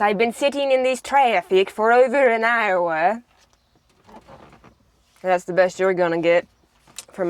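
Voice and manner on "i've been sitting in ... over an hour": slow, stilted mock Russian; Russian accent. Shown as a demonstration. Sibling complaining of traffic in a slow mock Russian accent. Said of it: "The Russian accent".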